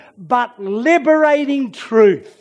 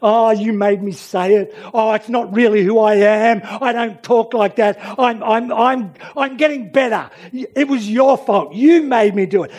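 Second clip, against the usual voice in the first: making excuses; 2 semitones higher, 4 dB louder than usual. Acted. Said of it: "I'm not going to make an excuse".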